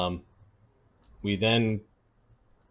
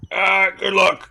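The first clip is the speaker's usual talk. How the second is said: laughing; 11 semitones higher, 9 dB louder, slower than usual. Real, not acted. Laughing at the scene.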